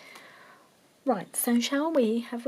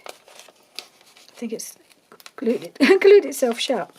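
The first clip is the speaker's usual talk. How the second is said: laughing; 3 semitones higher, 7 dB louder, slower than usual. Real, not acted. Laughing at the stuck pocket.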